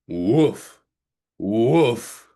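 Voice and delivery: a friendly pup woofing; dog bark. Acted. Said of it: "he said".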